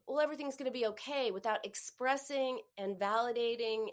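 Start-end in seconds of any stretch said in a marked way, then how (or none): 0.1-1.3 rushed reassurance. Shown as a demonstration. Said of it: "if you just go to".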